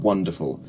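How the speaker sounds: "wonderful" with a rounded W; lips-forward W. Shown as a demonstration. Coach shows mouth shape, round W in "wonderful". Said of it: "your lips come forward".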